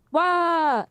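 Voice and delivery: weak Pacino hooah. Pretend. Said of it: "say hooah like Al Pacino".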